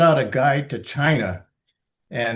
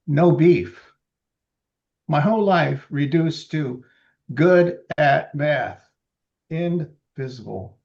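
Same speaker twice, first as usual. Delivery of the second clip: poetry reading. Acted. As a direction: hit the short lines hard. Reads own poem.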